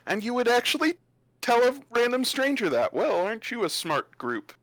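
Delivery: lightly voiced mocking bard; a touch of theatrical sarcasm; sardonic travelling bard. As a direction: needle the young adventurers, pitch lifting at first.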